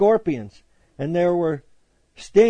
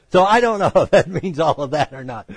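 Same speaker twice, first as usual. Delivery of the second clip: laughing; 3 dB louder than usual. Real, not acted. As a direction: chuckle running through the sentence. Still laughing after own joke.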